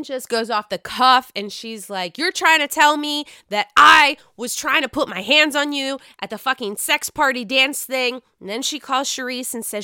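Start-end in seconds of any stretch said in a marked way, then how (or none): 2.2-8.2 loud, higher indignant demand; angry accusation. Retold or imitated. Robin on the phone, confronting Wendy angrily. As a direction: confront her, outraged and disbelieving.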